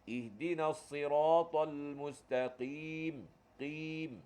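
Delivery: perlahan, qaf dalam pada "mustaqim"; bacaan tartil. Shown as a demonstration. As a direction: lagukan ayat dengan qaf tebal. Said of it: "Dalam Fatihah kita ada satu huruf qaf". (bacaan perlahan dengan qaf dalam)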